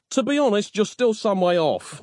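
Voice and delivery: high-pitched, gasping reply; gasped. A narrator's reading. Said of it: "Nick gasped".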